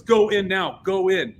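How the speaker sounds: high, loud retold order; mock commanding shout; Fletcher. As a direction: urge them through, imitating a boss. Fletcher sends band through gate.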